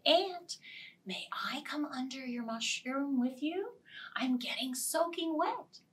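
lightly voiced pleading butterfly; gentle butterfly. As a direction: ask sweetly for shelter.

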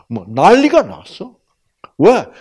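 ordinary talk, nothing marked

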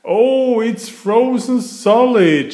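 high, loud startled cry; surprised Peppa. A narrator's reading. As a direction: gasp it out after slipping. Peppa slips on ice.

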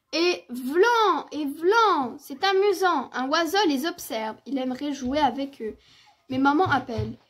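measured, articulate storytelling with lively emphasis; children's story narration. A narrator's reading. Narrator telling of Petit ours brun's snowy morning, story-reading voice. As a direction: read it aloud for small children.

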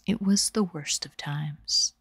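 slow whisper; ASMR whisper. Shown as a demonstration. Streamer demoing a whispered ASMR read for chat. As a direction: whisper it slowly into the mic. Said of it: "in a soothing voice".

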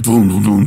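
low, loud drum beats; booming bass drums; war drum booms. Retold or imitated. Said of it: "pumping out the bass".

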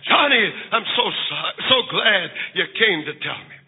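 low, gentle voice of a forgiving mother; tender murmur. Acted. Mother comforting her confessing boy, tender. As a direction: say it low and tenderly, without whispering. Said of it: "she whispered in his ear".

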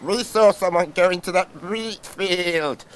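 lamb voice; crying lambs. Acted. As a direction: call out like lambs. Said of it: "cried the lambs".

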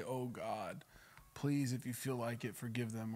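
soft, hesitant plea to God; understated begging; mild begging prayer. Acted. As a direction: imitate a meek, half-hearted prayer. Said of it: "it's begging".

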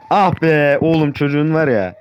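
high, loud and slow drawn-out cry; excited groan. Real, not acted. Gamer cheering a friend's play, loud and drawn out. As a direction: savour the moment like a fan.

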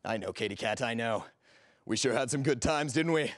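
low, soft seducer's voice; suave flirting. Acted. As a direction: linger on each phrase, low and flirtatious. Old flame recalling their night.

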